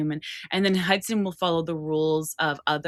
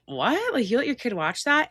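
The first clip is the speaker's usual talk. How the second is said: shocked parents; 6 semitones higher than usual. Retold or imitated. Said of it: "they're like".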